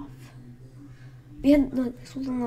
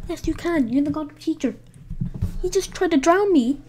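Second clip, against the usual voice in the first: higher, insistent protest; indignant retort; 3 semitones higher, 3 dB louder than usual. Retold or imitated. Drowned kid arguing with the lifeguard teacher, indignant. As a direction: argue back in outraged disbelief.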